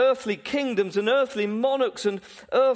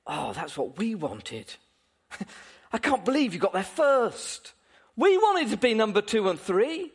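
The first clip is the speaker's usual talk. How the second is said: voicing the envious disciples. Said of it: "I think it was more likely something like this".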